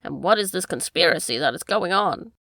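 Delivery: corner the rascal; angry accusation. Acted.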